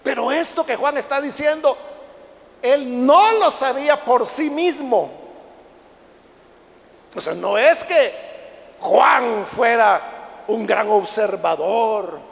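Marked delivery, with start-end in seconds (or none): 2.6-12.2 slow, loud, deliberate; pounding the pulpit, slow and loud; emphatic preaching. Acted. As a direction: hammer the point word by word.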